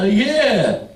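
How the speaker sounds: high laughing yeah. Retold or imitated. Clerk laughing at the joke, high laughing yeah.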